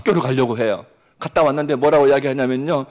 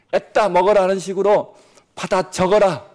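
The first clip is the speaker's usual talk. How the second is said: bossy teacher; 5 semitones higher, 5 dB louder than usual. Retold or imitated. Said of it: "하고 있으니까".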